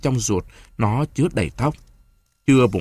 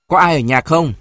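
raised, higher calling voice; 5 semitones higher, 6 dB louder than usual. A narrator's reading. Visitor backs into the yard and asks if anyone's home, calling out. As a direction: call toward the house from the yard. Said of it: "lùi lại đầu sân háng giọng".

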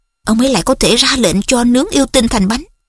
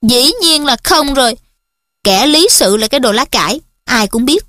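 contemptuous; 2 semitones higher than usual. Acted. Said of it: "Hermione đã nói giọng khinh miệt".

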